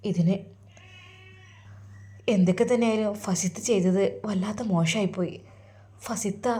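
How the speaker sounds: soft, hurt inner monologue; a quiet, heartbroken sigh of a son; sad lament. Acted. Son alone in his room, grieving his lost love, softly.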